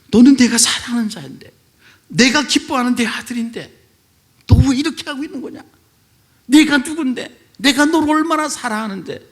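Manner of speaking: loud, high, pleading voice of God; voice of the Lord. Retold or imitated. The Lord calling to the suicidal elder, loud and pleading. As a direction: plead as a loving Father, lifting the voice. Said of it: "라고 주님이 말씀하시더라고요".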